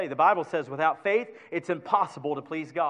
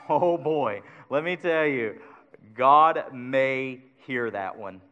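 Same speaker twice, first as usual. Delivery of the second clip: mock doubtful prayer; 3 semitones lower, slower than usual. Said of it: "just throwing up prayers and going".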